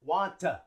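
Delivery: "Want to" as "want-uh", T joined to schwa; linked schwa. Shown as a demonstration. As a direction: run "want" straight into a short "uh". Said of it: "and we link it".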